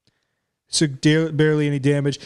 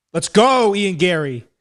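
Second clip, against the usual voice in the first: excited cheer; slower than usual. Real, not acted. Cheering fighter's win.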